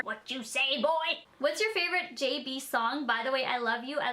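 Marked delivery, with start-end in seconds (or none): 0.0-1.2 put-on a light take on a deaf old lady. Future old lady asking a boy, lightly voiced. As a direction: lean in like a granny who missed it. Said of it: "I'm gonna be the best old lady ever".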